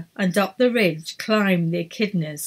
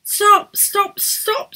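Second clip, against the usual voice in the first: commanding shout; 13 semitones higher, much slower than usual. A narrator's reading. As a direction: bark it to halt everyone. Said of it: "said Edith".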